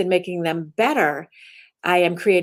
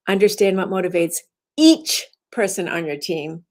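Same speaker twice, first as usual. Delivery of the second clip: "each" slowed and stressed after a short break. Shown as a demonstration. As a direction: land on "each" as if counting everyone. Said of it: "you emphasize it to change the meaning".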